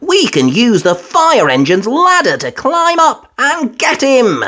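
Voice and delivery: put-on high eager little girl; Peppa voice. A narrator's reading. Peppa suggesting the ladder rescue, eager. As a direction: share the idea brightly.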